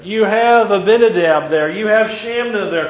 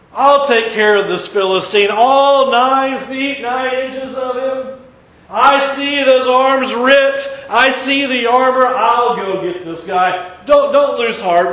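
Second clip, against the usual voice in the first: louder, higher, deliberate promise; bold confidence; 4 semitones higher, 5 dB louder than usual. Acted. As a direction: swagger of a brave shepherd. David boldly reassures the king.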